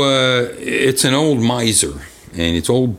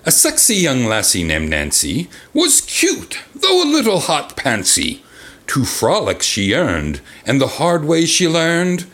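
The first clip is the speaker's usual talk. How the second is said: slower, careful second take; limerick recital; 5 semitones higher, slower than usual. Shown as a demonstration. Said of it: "take two".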